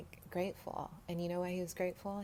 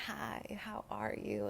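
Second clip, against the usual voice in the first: slow, hushed hi how are you; gently mimicking a friendly street greeting; whispered greeting; 4 semitones higher, slower than usual. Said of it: "they love saying hello".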